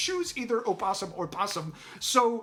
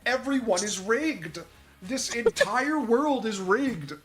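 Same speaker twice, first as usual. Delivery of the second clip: slow, raised, drawn-out despair; conspiratorial ranting; 3 semitones higher, slower than usual. Real, not acted. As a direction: wail each denial out slowly. Ranting that all is rigged.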